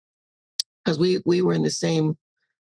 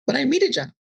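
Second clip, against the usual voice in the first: pleading self; 7 semitones higher, faster than usual. Retold or imitated. Arguing with her ego.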